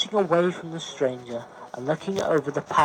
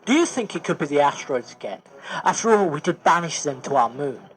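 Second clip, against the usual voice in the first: burst of adrenaline; 3 dB louder, faster than usual. Acted. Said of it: "with a burst of adrenaline".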